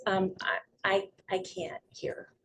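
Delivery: soft, hesitant, stumbling start; small, halting voice; timid objection. Acted. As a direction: play a reluctant listener speaking up quietly. Timid listener who must speak up.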